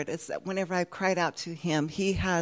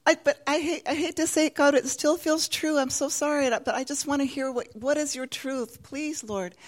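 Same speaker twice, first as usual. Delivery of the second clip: an apology that grows hushed; pleading prayer; 7 semitones higher than usual. Retold or imitated. Karen pleads with the Lord, softening to a hush.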